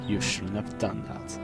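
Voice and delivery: slow, hushed and menacing; ominous slow quote. Acted. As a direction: let the line hang, slow and quiet. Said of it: "had that horrifying line".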